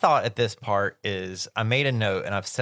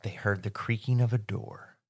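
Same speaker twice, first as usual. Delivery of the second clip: dramatic storyteller. Shown as a demonstration. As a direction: build suspense like a spooky story. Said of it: "in American writing and film".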